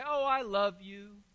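slow mock whine of a pleading wife; hammed-up whiny I love you; whining. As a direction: drag it out like a cheating wife whining for forgiveness. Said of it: "come whining back to Hosea and say".

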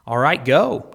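loud, high command. Acted. Jesus commands the demons, loud and firm. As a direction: order them out with force. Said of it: "Jesus commanded them".

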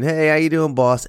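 walk in happy and unsuspecting; chirpy greeting. Retold or imitated. Worker greets boss cheerfully.

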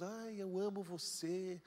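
slow, drawn-out mock sweetness; hammed-up hollow affection; mock shallow love. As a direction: lightly mimic an empty "amo você". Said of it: "a gente fala assim tão, superficialmente".

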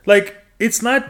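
high, mock-innocent excuse; hammed-up high-pitched denial; acted self-defence. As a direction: plead not guilty in a high voice. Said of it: "And you can say".

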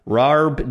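"Rarb" with a stretched r-coloured vowel; exaggerated local pronunciation. Host returns to the joke name, exaggerated "Rarb". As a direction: say "Rarb", leaning on the r. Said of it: "or as we say it over here".

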